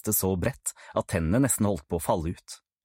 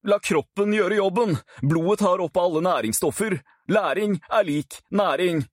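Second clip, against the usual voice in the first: higher, cheerful TV-host voice; showman Kent; 8 semitones higher than usual. Acted. Kent presenting homework-eating tips to the camera, chirpy host. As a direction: sell it like a goofy cooking show.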